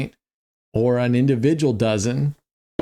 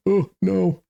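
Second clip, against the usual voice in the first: scared gasp; 8 semitones higher than usual. Retold or imitated. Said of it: "I was, like, breathing, like".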